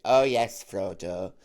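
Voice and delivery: lightly voiced camp hobbit; a hint of a camp eager Samwise; mildly camp hobbit eager to help Frodo. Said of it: "camp little tubby person going".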